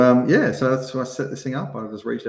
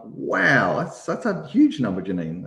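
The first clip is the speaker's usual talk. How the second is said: higher, stunned wow; shocked; 4 semitones higher, slower than usual. Retold or imitated. Retold shock at two million victims, voice raised. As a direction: let the number floor you. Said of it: "I was shocked".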